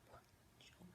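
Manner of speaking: very soft, breathy near-whisper; hushed joy. Acted. Woman marvels as he comes back to himself in her, hushed joy. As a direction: let it out barely voiced, almost to yourself. Awakened embrace in a dramatic monologue.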